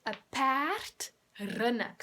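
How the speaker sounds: loud, slow choral model. Shown as a demonstration. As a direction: lead the class to repeat loudly. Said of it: "Say it with me".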